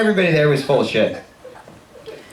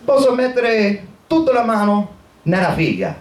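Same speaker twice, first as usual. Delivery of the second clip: higher-pitched imitation of an old Italian; elderly Italian man; 6 semitones higher than usual. Old Italian answering the manager about his wife, elderly Italian voice. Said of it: "eighty-eight-year-old Italian guy".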